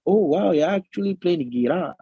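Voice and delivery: lightly put-on American accent; mock American accent. Guy teasing his friend who tiaos, mock American accent. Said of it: "in an American accent".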